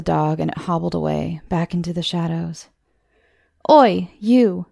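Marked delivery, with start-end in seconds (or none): 3.7-4.7 loud rough call across the alley; shouted challenge. Acted. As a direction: bark it at the girl who grabbed the dog. Boys catch girl in alley.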